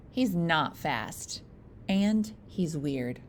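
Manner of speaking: slow, drawn-out judgement on a brother; slow verdict. Acted. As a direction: spell out the verdict slowly. Brothers rate him in turn.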